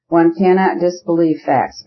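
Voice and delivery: emphasis placed on the word "facts"; stress on FACTS. A narrator's reading. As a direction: lean on "facts" to close the point. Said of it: "with an emphasis on the word facts".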